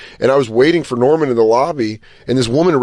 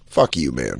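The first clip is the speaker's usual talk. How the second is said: muttered curse; 13 semitones lower, 7 dB quieter than usual. Retold or imitated. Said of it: "the follow-up text is where you're like".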